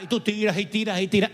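quick, run-on repeated action; obstinate repetition. Acted. Preacher mimicking someone who won't stop, obstinate repetition. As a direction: rattle on as if nothing had changed. Acts out ignoring the season.

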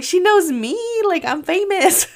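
high, laughing mock boast; joking brag. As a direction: brag playfully through a laugh. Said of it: "Angela was like".

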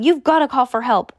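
high, insistent plea; urgent plea. A narrator's reading. Pleading with neighbour in emergency.

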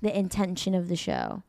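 calm, put-on British accent; measured British affectation; affected British accent. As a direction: play at sophisticated British, unhurried. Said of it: "the way I'm talking now".

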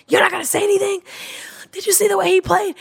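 high mock whisper of disbelief; retold exasperation. To husband at the game, a high hushed outraged whisper. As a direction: hiss it at the laid-back husband. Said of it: "I'm like".

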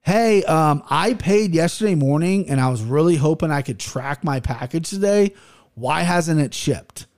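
sugary fake-polite complaint; passive aggressive. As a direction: needle him politely with an edge. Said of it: "very passive aggressively and goes".

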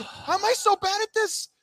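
very high-pitched mock despair; exasperated despair. Announcer berating himself after botched names, exasperated despair. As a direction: squeal it in comic self-reproach. Acted despair at own mistakes.

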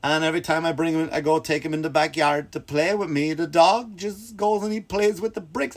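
lightly voiced owner airing a grievance; complaining dog owner. Retired owner complains about her dog to Caesar, mock complaining.

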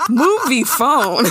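slow drawn-out announcer voice. Shown as a demonstration. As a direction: stretch it like a promo.

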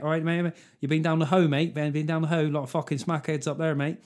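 put-on light Plymouth accent with a city edge; a bloke from Plymouth asking if you've been down the Hoe; lightly voiced Plymouth geezer. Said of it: "what's that weird accent they got down Plymouth".

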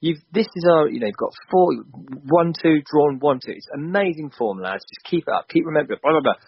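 light imitation of a coach at halftime; halftime team talk. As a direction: play the gaffer geeing up his team. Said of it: "Halftime team talk".

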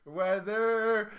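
drawn-out catchword. Retold or imitated. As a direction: stretch it as the next one joining in. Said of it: "was like".

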